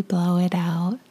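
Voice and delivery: guided meditation. Acted.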